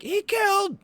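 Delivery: a high, loud cry of alarm; alarmed shout. Acted. Cultist crying out to the guards, high and loud. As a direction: yell it out in panic. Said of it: "They'll at least hear".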